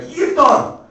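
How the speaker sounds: high-pitched, sudden call; mock dad's yell. Dad calling his son a bum, high mock yell. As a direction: hurl it like a nickname insult.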